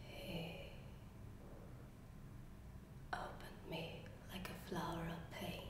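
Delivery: very soft, low, halting near-whisper; low hushed confession with long pauses. Acted. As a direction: confide it barely above a breath. Acted monologue, haunted confession.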